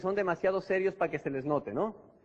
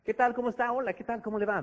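higher, cheerful hello; friendly greeting; 4 semitones higher, faster than usual. Shown as a demonstration. Salesman greets people in a friendly way. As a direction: greet them warmly with a handshake. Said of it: "dar la mano y saludar".

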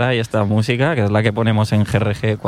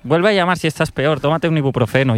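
higher, offhand brush-off from the emergency line; breezy and dismissive, as if nothing's wrong; lightly voiced bored operator brushing off a caller; casual phone operator; 5 semitones higher than usual. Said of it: "me dijeron".

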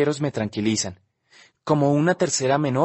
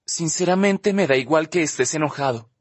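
a hint of spite, a little raised; spiteful; 4 semitones higher than usual. Olivia stung, telling Justin she doesn't care, mildly spiteful. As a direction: snipe back with mild resentment. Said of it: "dice despechada".

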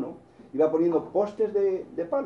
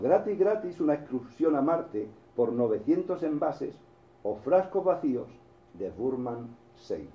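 ad slogan. Retold or imitated. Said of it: "el anuncio decía así".

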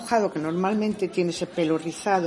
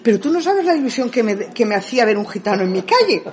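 excited telling; 4 semitones higher, 6 dB louder, faster than usual. Retold or imitated.

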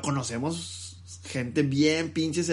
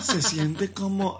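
mock sultry voice; 2 semitones higher, much slower than usual. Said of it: "hasta cambia la voz".

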